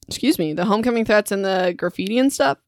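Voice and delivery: talking through hiccups; hiccuping between words. Real, not acted. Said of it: "I keep hiccuping".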